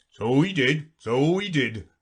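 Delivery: sighing. Acted. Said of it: "sighing in his turn".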